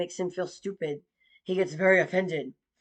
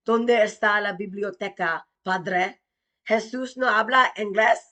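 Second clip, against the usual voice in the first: mock Spanish to father. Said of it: "And then I was all".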